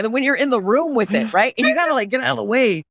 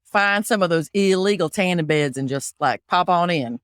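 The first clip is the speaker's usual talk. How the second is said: put-on Southern accent; 5 semitones lower than usual. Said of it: "So I'll do Southern".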